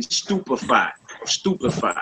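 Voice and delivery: stupefy with a brief, slurred middle vowel; slurred short E. Shown as a demonstration. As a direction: say stupefy, barely sounding the E. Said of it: "short, slurred sound like the E".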